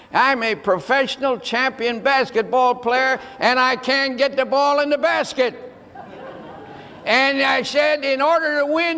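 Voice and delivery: mildly exasperated son, speeding up as he explains; exasperated explaining. Retold or imitated. Champion player explains basketball to his mom, exasperated. Son protests to uncomprehending mother.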